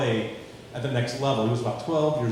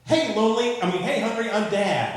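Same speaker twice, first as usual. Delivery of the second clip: higher, hammed-up goofy dad; cheesy dad; 9 semitones higher, 4 dB louder than usual. Dentist dad making his corny joke, higher goofy voice.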